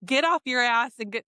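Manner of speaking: mock scolding lecture, hitting the openings; mean and nasty. Influencer scolding a woman who asked for money, mean and nasty. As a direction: imitate an influencer lightly berating someone. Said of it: "just mean and nasty".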